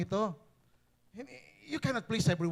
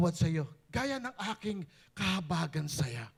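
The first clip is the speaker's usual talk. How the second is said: usual speaking voice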